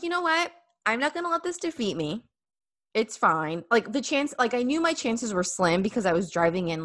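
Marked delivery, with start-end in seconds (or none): 0.0-3.6 high, bright self-pep talk; rally yourself against defeat; imitating her own upbeat resolve; mock pep talk.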